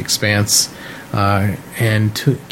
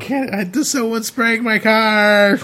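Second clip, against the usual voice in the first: raised voice over a car wash; higher, louder over the noise; shouting over machinery; 11 semitones higher, slower than usual. Real, not acted. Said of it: "the car wash is too loud".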